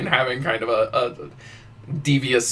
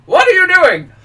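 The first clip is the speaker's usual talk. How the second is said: much higher, louder puzzled queen; baffled queen; 10 dB louder than usual. Retold or imitated. Queen baffled by the bow, high and loud. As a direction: ask it high and incredulous.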